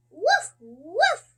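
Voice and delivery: the dog barking for supper, loud woof. A narrator's reading. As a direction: bark it like an eager dog. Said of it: "says the dog".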